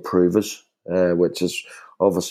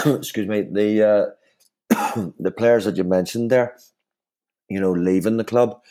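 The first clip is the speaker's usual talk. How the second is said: throat irritated. Real, not acted. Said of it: "Sorry, I'm choking here".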